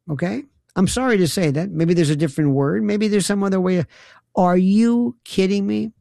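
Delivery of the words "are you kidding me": slow, drawn-out disbelief; incredulous. Real, not acted. Radio host on the released suicide note, slow incredulity. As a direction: stretch out each word, incredulous.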